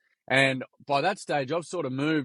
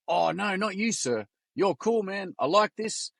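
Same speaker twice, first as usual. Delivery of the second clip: high Kiwi boy impression; Kiwi accent; 8 semitones higher than usual. Kiwi boy tells sir he's cool, high Kiwi accent. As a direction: reassure in a put-on, pitched-up Kiwi voice. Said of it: "Excuse my Kiwi accent".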